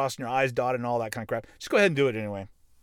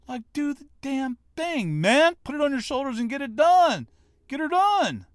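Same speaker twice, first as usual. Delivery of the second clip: loud, much higher rallying cry; fired-up shout; 11 semitones higher, 6 dB louder than usual. Real, not acted. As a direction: yell it like a coach pushing the team. Fired-up exhortation to listeners.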